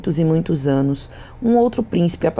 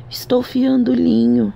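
put-on high, cracked old crone; a hint of a creaky old spinner; old woman voice; 9 semitones higher than usual. A narrator's reading. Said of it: "respondeu a velha".

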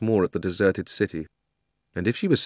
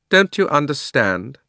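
loud, high, imperious queen voice; haughty queen's loud grievance; proud queen; 7 semitones higher, 7 dB louder than usual. A narrator's reading. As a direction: rant like a wronged tyrant queen.

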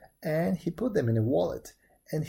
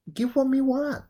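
high, loud bird demand; pheasant voice; 10 semitones higher, 6 dB louder than usual. A narrator's reading. Pheasant wanting a millet dumpling, high loud voice. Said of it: "said the pheasant".

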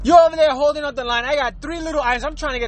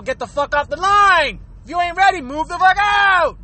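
higher, forceful shouted order; pretend staff order; 4 semitones higher than usual. Workers telling a customer to leave, shouted order. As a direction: bark it like staff clearing the line. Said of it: "you should tell the people".

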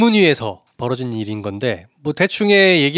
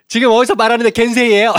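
high, loud laughing snap; snapping retort; 9 semitones higher, 5 dB louder than usual. Retold or imitated. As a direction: fire it back at the chairman. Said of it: "유성엽 위원장을 확 쏘면서".

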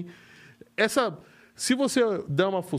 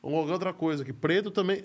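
ordinary talk

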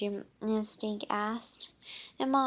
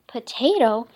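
loud puzzled "Potato?"; surprised; 12 dB louder than usual. Real, not acted. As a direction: blurt it out, confused. Reacts to odd word.

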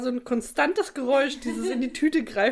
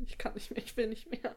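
weary mutter; 9 dB quieter than usual. Retold or imitated. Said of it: "hätte ich gedacht".

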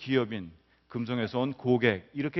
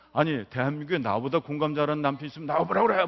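mildly heated retort, building at the end; sudden mock anger; 2 semitones higher than usual. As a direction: imitate an indignant husband's boast. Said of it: "갑자기 저한테 화를 내면서".

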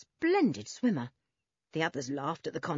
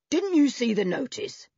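loud, higher-pitched challenge; shouting; 6 semitones higher, 5 dB louder than usual. A narrator's reading. Man pointing trespassers to the sign, shouting. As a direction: shout it accusingly across the pool. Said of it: "shouted the man".

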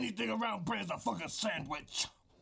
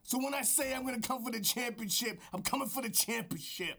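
gruff wrestling trash talk aimed at the skies; over-the-top wrestling promo; wrestler promo voice. Acted. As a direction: hype man cutting a promo. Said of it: "This is my wrestler voice".

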